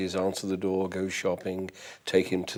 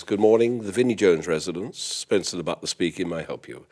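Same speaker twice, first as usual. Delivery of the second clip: butler answering phone. Shown as a demonstration. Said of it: "I would answer the phone".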